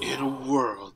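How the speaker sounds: lightly put-on movie trailer voice; a hint of trailer narrator passed off as sexy; mock-seductive trailer intro; joking sexy voice. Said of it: "That's my sexy voice".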